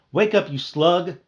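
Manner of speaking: high, loud slow angry yell; angry buzz. Acted. Angry bee yelling at the sleeping boy. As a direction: yell him awake. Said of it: "I buzzed at him".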